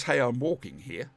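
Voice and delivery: understated New York accent attempt; a hint of New York, barely put on. Streamer awaiting Brenton's judgment, subdued New York accent. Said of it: "judge my New York accent".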